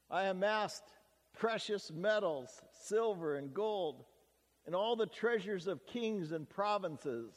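voicing King Solomon. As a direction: tell his boasts as the king himself, only slightly lifted.

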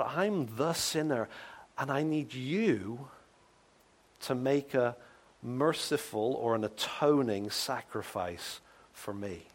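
slow, soft plea; a quiet contrite cry; humble cry. Retold or imitated. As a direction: plead slowly, in humility. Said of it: "cries out to God".

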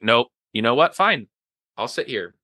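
huffy "fine" that jumps up in pitch, then drops off; mock-petty retort. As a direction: act out a petty sulk, giving up in a huff. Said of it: "reaction is gonna be petty".

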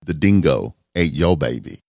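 amateur attempt at an Australian accent; horrible Australian accent. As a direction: do a deliberately bad Aussie accent. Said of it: "my horrible accent".

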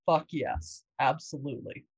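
character voice. Shown as a demonstration. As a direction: drop into the character for it. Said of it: "I can do it in character voice".

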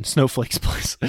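whispered "Snowflakes place" through a laugh; soft, breathy laugh on the misspoken "Snowflakes place"; laughing at a slip. Real, not acted. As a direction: giggle at the wrong word "Snowflakes". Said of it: "Snowball place".

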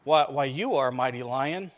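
understated frightened gazelle, faltering at the start; trembling. Acted. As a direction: answer the lion with a touch of fear. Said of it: "Trembling, the gazelle answered".

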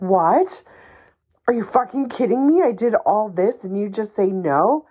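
hammed-up frustrated rant, fast; exasperated outburst. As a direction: play the fed-up victim, rushing the words. Acting out the frustrated reaction.

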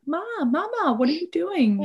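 put-on high little-kid voice, lightly done; playing her curious son bursting in; toddler voice. Mom voicing her toddler barging into the room, high and childlike.

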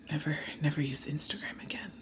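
whispered to herself, breathless with dread; barely voiced, as if the words hurt. Real, not acted. Whispering the option the host just read out.

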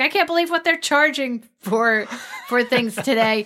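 a laughing market woman fussing about prices; mock indignation from one shopper to another, laughing; market woman complaining. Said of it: "and she says".

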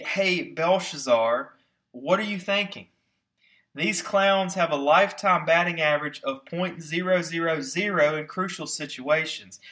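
mildly exasperated, pitch jumping up on the challenge; incredulous gut reaction. Acted. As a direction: play a baffled onlooker scolding the king. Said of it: "your gut reaction to".

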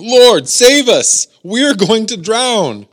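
loud, high, drawn-out cry for help; scared disciples. Acted. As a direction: cry out in panic, slowly and high. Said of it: "disciples are scared out of their minds".

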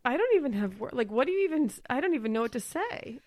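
tripping over words and restarting; flustered stammer, cutting words off; stuttering. Real, not acted. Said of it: "I'm stuttering over my own thoughts".

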